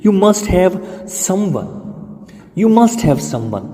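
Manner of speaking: very slow, word by word; teacher drills it slowly; slow model sentence. Shown as a demonstration. Slow drilled sentence for learners.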